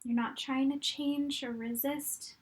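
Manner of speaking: calm, unhurried meditation guide with long pauses; guided meditation. Real, not acted. Coach guiding fitness instructors to look back on their journey, calm meditation voice. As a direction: guide them gently through it, leaving room to breathe.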